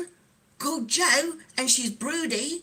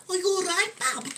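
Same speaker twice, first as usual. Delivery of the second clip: higher-pitched, put-on Brummie; Brummie accent; 5 semitones higher than usual. Shown as a demonstration. Streamer demonstrating British accents for viewers, Brummie accent. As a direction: do a quick Brummie impression. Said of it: "That's me doing a Brummie accent".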